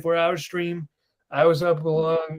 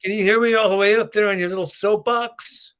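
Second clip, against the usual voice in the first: raised, higher calling voice; mock calling out; 6 semitones higher, 6 dB louder than usual. Co-host teasing Frank up on his soapbox, mock calling out. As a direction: call up to someone on a high soapbox.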